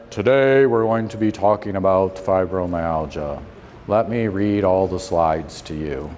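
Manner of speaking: a hint of a robotic doctor reading slides aloud; mild monotone Spock-style presenter; stiff Spock doctor. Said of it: "I see how Spock acts".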